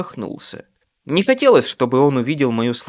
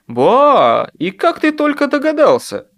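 grumbling; 13 semitones higher, 6 dB louder than usual. A narrator's reading. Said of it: "буркнул я".

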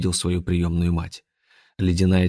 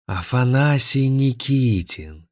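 slow, higher venomous drawl; 5 semitones higher, slower than usual. Acted. Zakhar recognises his enemy, venomous drawl. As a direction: spit the name with venom. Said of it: "ядовито процедил Захар Сергеевич".

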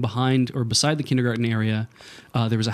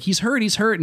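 tag crying brother; 8 semitones higher than usual. Retold or imitated. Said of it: "My brother's crying too".

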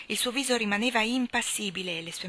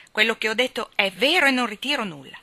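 stubborn; 3 semitones higher, 6 dB louder than usual. Acted. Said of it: "E ostinata ripetei".

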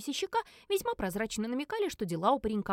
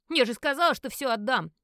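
loud angry shout; 3 semitones higher, 7 dB louder than usual. Acted. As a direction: shout it, stung and furious. Edward shouts at the gamblers. (громкий злой выкрик)

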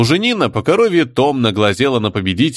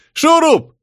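very high, louder call across the crowd; 4 dB louder than usual. Acted. Tribesman calling Shurup over, loud call. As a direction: hail him from afar.

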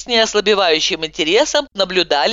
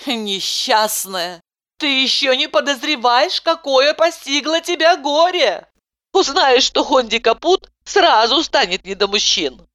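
ominous reply; 8 semitones higher than usual. A narrator's reading. Heroine warns Lyudmila gloomily. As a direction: warn her darkly.

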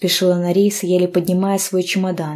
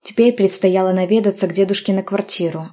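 usual speaking voice

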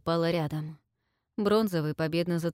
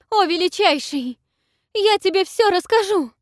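much higher, very loud scream; shrieking yell; 13 semitones higher, 9 dB louder than usual. A narrator's reading. Selsete betrays the queen to the dragon, shrieking.

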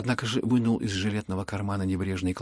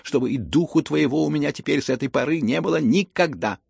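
higher, louder furious order; angry banishment; 5 semitones higher, 6 dB louder than usual. Acted. Pale with rage, Lizaveta banishes the prince, loud and high. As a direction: drive him out of the house. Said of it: "побледнев от гнева".

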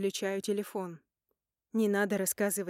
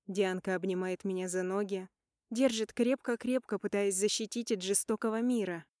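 ordinary talk, nothing marked

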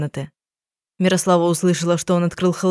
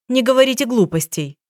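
a much higher, strict telling-off; stern scolding; 6 semitones higher than usual. A narrator's reading. Detective scolds the doubting husband, stern and sharp. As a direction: scold him like a silly overgrown child. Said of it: "строго прикрикнула на него".

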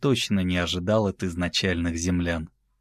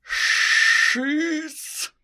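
hissing effect. Acted. Imitated sound effect.

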